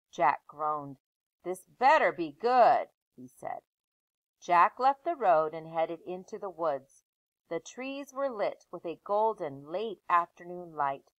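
put-on lively read-aloud voice for children; story narration. Teacher reading a chapter book aloud to her class.

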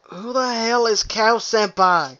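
slow, baffled mock question. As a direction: play the confused friend. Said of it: "And I'd be like".

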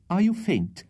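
high, worried question; anxious. A narrator's reading. Rachel to the fainting Tupman, anxious. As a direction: ask anxiously in a high lady's voice. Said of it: "inquired the anxious Rachel".

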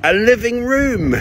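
punchline high and loud. Acted. Punchline delivered.

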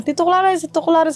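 retold calling out. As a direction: mildly call out to Uncle, retelling it. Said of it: "Tinawag niya". (ginagayang pagtawag sa tito)

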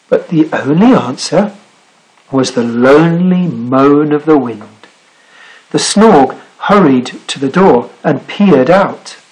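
measured read-aloud, lingering on key words; story narration. Acted. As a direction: build the lonely scene phrase by phrase. Reads picture book aloud.

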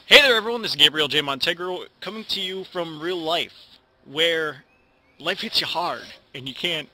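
loud, high, hyped-up host intro; big hyped intro. Shown as a demonstration. Youtuber shouting a hyped intro to his viewers. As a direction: blast the greeting at the viewers. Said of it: "I don't know what the fuck I'm doing".

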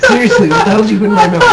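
loud, fast, exasperated demand; angry demanding. Real, not acted. Repeats question, louder, demanding.

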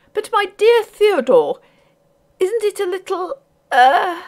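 high-pitched, hesitant mother; hint delicately at disapproval, high voice; critical lady. A narrator's reading. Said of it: "observed the lady critically".

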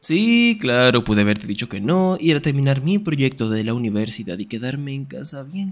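loud mock agreement; theatrical sarcasm; sarcastic. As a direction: list it off with exaggerated irony. Louder sarcastic tirade.

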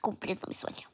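tearful, quiet and shaky; crying softly while talking; snotty crying. Real, not acted. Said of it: "Llorando, check".

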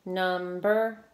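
"Number" drawn out in two beats, Num, ber; syllable by syllable. Shown as a demonstration. Teacher counting syllables with pupils, "Number" in two clear parts. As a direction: stretch "Number" so both syllables can be counted. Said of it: "How many syllables?".

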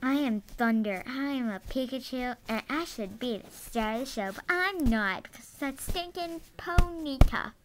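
loud, pushy toy character. Pretend. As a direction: boast like a jealous Pikachu. Toy character introducing itself loudly.

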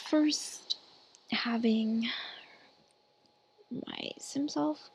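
speaking through hiccups; words broken by hiccups. Real, not acted. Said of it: "I have the hiccups".

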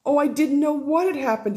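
weepy outpouring, understated; mild sobbing. Acted. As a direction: stepmother tearfully embracing Sophie, lightly sobbing. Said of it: "she sobbed".

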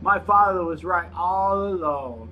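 slow, hammed-up Russian accent. Player reading a game note on request, mock Russian accent.

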